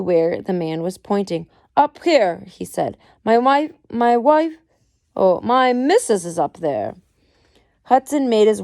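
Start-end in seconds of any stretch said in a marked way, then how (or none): 1.8-2.4 calling out. Acted. Husband calls up the stairs. 3.2-6.9 desperate husband. Acted. Husband points to dying wife.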